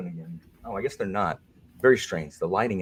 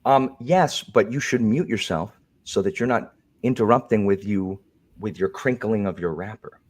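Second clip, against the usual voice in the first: prim moderator voice. Pretend. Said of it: "Alan's not taking that role anymore".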